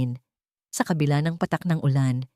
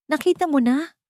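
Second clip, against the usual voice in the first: triumphant; 10 semitones higher than usual. A narrator's reading. Mother-in-law gloating over the beaten wife, triumphant. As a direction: crow over her victory. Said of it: "Puno ng tagumpay ang tinig".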